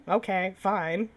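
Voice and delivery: slow, drawn-out sulky okay. Acted. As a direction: drag it out, pouting. Sulky give-up after no reply.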